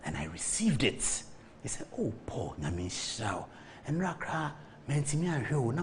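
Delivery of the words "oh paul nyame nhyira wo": hushed, lower retelling of an elder's blessing; low, soft, sincere imitation; heartfelt blessing. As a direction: quote him softly, as if from the heart. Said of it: "from his heart".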